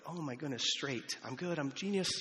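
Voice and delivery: mock euphoric self-praise building to a cheer; giddy golf joy. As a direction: crow like a golfer who just nailed one perfect drive. Golfer thrilled by one good drive.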